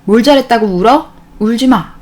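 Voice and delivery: mock scolding parent. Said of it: "애가 잘못해놓고 울면".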